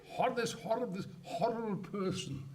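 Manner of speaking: chuckling through a mocking aside; half-laughing scorn. Real, not acted. Laughing while mocking the minister.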